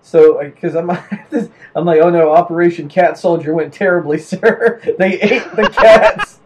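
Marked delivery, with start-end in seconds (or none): 2.0-6.4 panicked soldier report. Pretend. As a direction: report the disaster, half-laughing.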